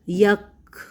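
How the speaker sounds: یک with a breathy, whispered kaf; airy kh sound on یک; soft breathy kaf. Shown as a demonstration. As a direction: let the kaf in یک escape with breath, no jolt. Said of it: "کھ والی آواز،".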